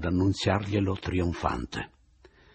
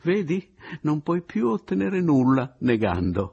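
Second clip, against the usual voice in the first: incalzante; 6 semitones higher, 5 dB louder than usual. Acted. Narratore incalza Oliva, concitato.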